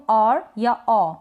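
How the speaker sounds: "और या औ": पहले हल्का र, फिर बिना र का ऑ; धीरे अलग-अलग "और या औ" सिखाएँ; OR के दो उच्चारण. Shown as a demonstration. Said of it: "दोनों ही तरीके से करेक्ट". ("और या औ" में स्वर खींचें, र हल्का)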